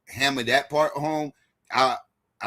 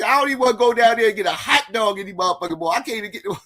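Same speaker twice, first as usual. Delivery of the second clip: high-pitched mock voice of the debater; squeaky caricature of a ranting guy; mimicking Rio; 11 semitones higher, 4 dB louder, faster than usual. Moderator mimics Rio's funny rebuttal line in a high voice. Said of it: "he said".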